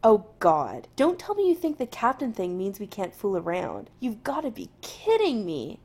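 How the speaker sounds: exasperated groan. Acted. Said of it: "Jim groans".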